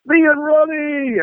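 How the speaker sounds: high, drawn-out mock cry; hammed-up gloating hanger-on; triumphant boast. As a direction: crow about your famous friend. Hanger-on boasting after being welcomed.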